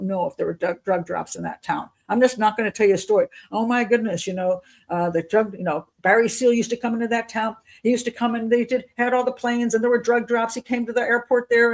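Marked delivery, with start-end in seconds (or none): 3.5-11.7 higher-pitched, pretend excited gossip; mock-excited storyteller. Showing viewers the story they won't tell, mock-excited. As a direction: spin the tale as if it were certain fact. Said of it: "that's all exciting".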